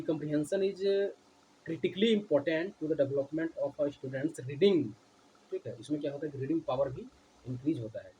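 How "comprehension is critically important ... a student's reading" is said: very slow, word by word, a little louder; slow dictation. Shown as a demonstration. Teacher dictating the definition to students, drawn-out and deliberate. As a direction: spell it out so the class can write it down.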